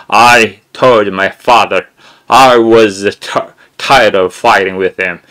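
slow, deliberately mouthed English; over-pronounce each word slowly; exaggerated drill reading. Shown as a demonstration. Teacher demoing sound-English practice, slow and exaggerated. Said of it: "이런 걸 연습하면은".

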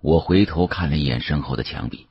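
ordinary delivery, nothing marked

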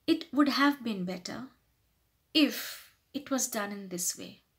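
measured, tactful correction; humble suggestion. Shown as a demonstration. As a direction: suggest a better way gently. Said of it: "try to sound more humble".

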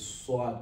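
sad with the lips pulled, sounding like swad; wrong sad. Shown as a demonstration. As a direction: pull the lips into a mistaken SAD. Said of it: "don't pull your lips like this".

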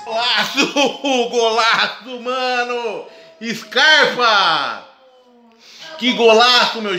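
explosive goal commentary. Real, not acted. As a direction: shout the goal with joy. Goal just scored, fan celebrating.

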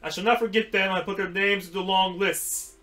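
put-on lifted, grand old tree voice; a hint of a stately ent; Treebeard voice. Ent praising the hobbits, lifted and grand. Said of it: "said Treebeard".

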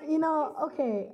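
real hoarseness from a lost voice. Real, not acted. Performer apologising to the audience after losing their voice, hoarse. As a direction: talk through a worn-out, smoker-like hoarse voice. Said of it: "I sound like I smoke".

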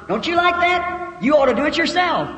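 high-pitched, elated urging; exuberant challenge. Acted. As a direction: happily egg on a little creature. Playfully addresses the squirrel in story.

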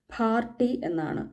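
പാർട്ടി with an aspirated p, slowly; German pronunciation of പാർട്ടി; German p in Party. Shown as a demonstration. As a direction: breathe out on the p of പാർട്ടി. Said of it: "pronunciation പിക്ക് ഫേ ആയതുകൊണ്ട്".

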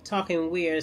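numb mouth, slightly slurred words; numb from the dentist. Real, not acted. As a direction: talk with half your mouth numb. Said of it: "this side of my mouth is numb".

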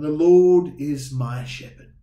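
The Lord is my shepherd, slow, leaning on my; slow and personal, weight on my; stress on my. Shown as a demonstration. Pastor making the verse personal, stressing my. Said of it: "there's a big difference between saying".

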